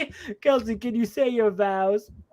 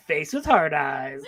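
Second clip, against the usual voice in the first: laughing mock vow; 8 semitones lower than usual. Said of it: "you'd be like".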